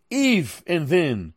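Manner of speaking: "If and then" drawn out slowly, each word weighed; slow, deliberate. Shown as a demonstration. Preacher driving home Paul's logic to the congregation, slow and deliberate. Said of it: "he used the word "if" and "then".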